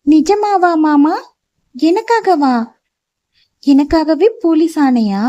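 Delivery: put-on a small girl thrilled her uncle became police; amazed little girl. A narrator's reading. (உயர்ந்த, மெதுவான வியப்புடன் சிறுமி குரல்)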